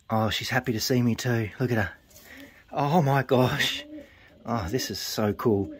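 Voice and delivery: hushed and tender, melting over her; tender cooing. Real, not acted. Fancier softly cooing at his proud hen.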